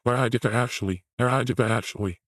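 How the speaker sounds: quick, throaty mock imitation; Andrew Tate. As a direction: mimic him talking from the throat, rushed. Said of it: "Don't speak from the throat".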